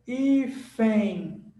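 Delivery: "Hífen" drawn out with a nasal glide at the end; nasalized ending demo. Shown as a demonstration. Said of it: "É assim que você lê".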